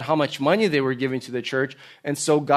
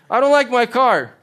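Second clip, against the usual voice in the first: mock whine pushed higher and louder; louder whiny complaint; 8 semitones higher, 6 dB louder than usual. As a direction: whine harder, a spoiled grumble.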